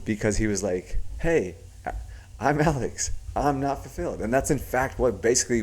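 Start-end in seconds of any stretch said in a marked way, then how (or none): 1.2-4.2 higher-pitched supplicating imitation; Alex. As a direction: plead meekly, mimicking someone seeking guidance. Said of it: "Alex was supplicating to Tony".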